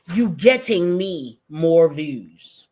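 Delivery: slow, mocking quote of her words; mocking slow reread. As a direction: drag it out to ridicule her grammar. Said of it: "talking like this".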